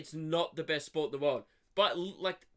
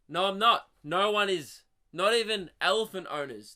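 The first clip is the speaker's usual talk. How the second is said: emphatic rebuttal; 3 semitones higher, 6 dB louder than usual. Real, not acted. Rebutting the dung headline.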